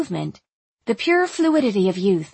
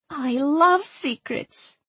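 put-on high, slow, relishing girlish voice; young Erzsébet; 6 semitones higher, much slower than usual. A narrator's reading. Young woman delights in a secret request, girlish and drawn out. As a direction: savour it in a young accented voice.

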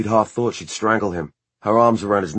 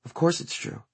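indignant; 8 semitones higher, 6 dB quieter than usual. A narrator's reading. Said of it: "she said indignantly".

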